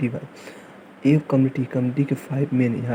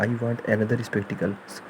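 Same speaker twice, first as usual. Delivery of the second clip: very slow, drawn out sentence; slow example; much slower than usual. Shown as a demonstration. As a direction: dictate the wrong version slowly. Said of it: "example sentence said slowly". (धीमा उदाहरण वाक्य)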